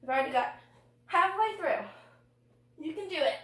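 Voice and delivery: straining voice under exercise effort; strained mid-workout. Real, not acted. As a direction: push the words out while holding a crunch. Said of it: "this is not a cute voice".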